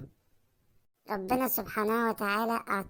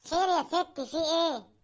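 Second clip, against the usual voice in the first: nervous laugh; 5 semitones higher than usual. Acted. Husband feigns innocence, laughing.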